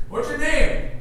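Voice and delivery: 1 skit neighbor. Retold or imitated. Neighbors quizzing Abram skit.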